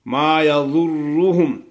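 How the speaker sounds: یضرهم with a thick ض and a heavy ر; heavy dad and ra. Shown as a demonstration. Teacher models heavy letters in یضرهم. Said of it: "ضاد کو موٹا پڑھیں گے".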